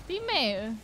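high, building shout urging a teammate; real gamer cheer; excited cheer. Real, not acted. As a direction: hype them up, rising to a yell.

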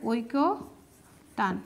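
ঐক্য তান split as oi-ko, pause, taan; careful oi-ko ... taan for ঐক্য তান; correct pronunciation. Shown as a demonstration. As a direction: sound out ঐক্য তান with a single k. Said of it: "সঠিক উচ্চারণ হচ্ছে ঐকতান".

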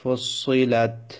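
"ফুসসিলাত" with the double s held; lingering doubled consonant. Shown as a demonstration. Teacher shows tashdid takes time, "ফুসসিলাত" with lingering double s. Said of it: "সে অক্ষরটা একটু সময় লাগবে উচ্চারণ করার".

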